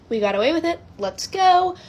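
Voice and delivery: retold cheer, jumping high at the end; proud triumph. Friends celebrate fooling grandma, proud triumph. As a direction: build to a mock victory cry. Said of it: "we were proud of ourselves".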